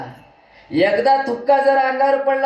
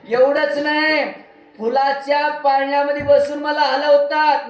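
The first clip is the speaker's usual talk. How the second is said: put-on proud old man bragging, pitched higher and quicker; boastful old patriarch; 5 semitones higher than usual. Old man boasts to the preacher about his household, higher and proud. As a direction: brag like the head of the house holding the keys.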